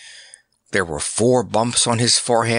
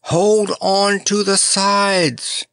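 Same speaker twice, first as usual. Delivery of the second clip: called directions; 9 semitones higher, much slower than usual. Acted. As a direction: call it out over the wind. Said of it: "He called more directions".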